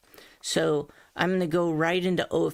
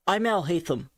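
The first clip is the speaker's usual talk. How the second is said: lower, heavier take of the line; too low. Shown as a demonstration. Coach's failed low take of the character line. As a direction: drop it down too far. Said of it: "No, that's too low".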